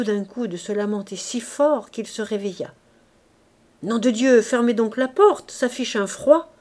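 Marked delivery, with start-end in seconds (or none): 3.8-6.5 gruff, louder and higher, irritated at the cold draught; grumpy waking growl. Acted. Old gravedigger woken by Gervaise, grumpy loud complaint. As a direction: bark at the intruder to shut the door.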